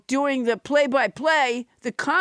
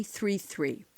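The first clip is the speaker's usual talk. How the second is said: soft whispered tag; 8 semitones lower, 10 dB quieter than usual. Acted. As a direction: whisper the last digits. Unvoiced whisper.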